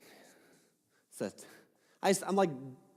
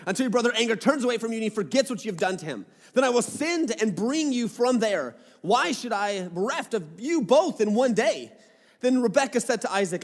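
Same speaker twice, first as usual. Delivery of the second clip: raised, higher-pitched Bible reading; scripture reading; 4 semitones higher than usual. Acted. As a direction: read the passage out clearly to the room. Reads scripture aloud to the congregation.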